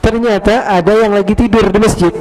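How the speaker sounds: ordinary talk, nothing marked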